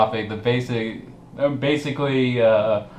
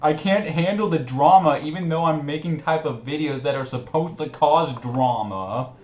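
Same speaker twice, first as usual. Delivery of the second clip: mock whine; 5 semitones higher than usual. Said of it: "he can't".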